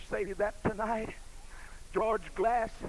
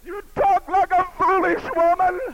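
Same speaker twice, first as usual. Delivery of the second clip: higher, louder stern rebuke; 9 semitones higher, 10 dB louder than usual. Shown as a demonstration. Preacher voicing Job scolding his wife, louder stern rebuke. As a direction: hit the word talk and raise it. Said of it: "repeated louder".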